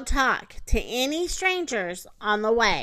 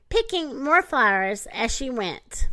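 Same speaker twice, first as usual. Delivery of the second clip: ordinary delivery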